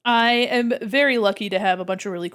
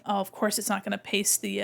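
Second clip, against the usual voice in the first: ordinary talk, nothing marked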